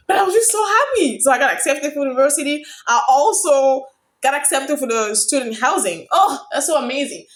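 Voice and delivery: high, loud joyful talk; real joy, high and loud; happy screaming. Real, not acted. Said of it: "I'm so sorry I'm screaming".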